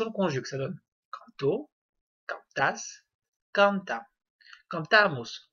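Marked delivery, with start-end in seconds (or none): 4.7-5.5 cantamos with the middle syllable "ta" stressed. Shown as a demonstration. Teacher conjugating for learners, stressed A in cantamos. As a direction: lean on the second A of cantamos. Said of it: "On accentue sur le A".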